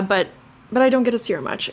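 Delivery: ordinary talk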